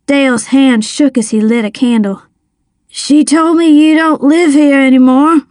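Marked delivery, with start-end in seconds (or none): 2.9-5.4 raised pitch, tense pushback; tense protest. A narrator's reading. Boy stands up to drunk father.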